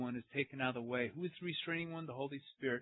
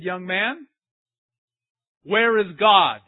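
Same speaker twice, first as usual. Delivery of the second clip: mild priest; 3 semitones higher, 11 dB louder, much slower than usual. Retold or imitated. First take of priest's question.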